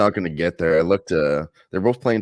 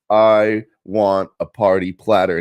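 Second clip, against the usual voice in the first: Kennedy voice; 2 semitones higher, 7 dB louder, slower than usual. Retold or imitated. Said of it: "he's like".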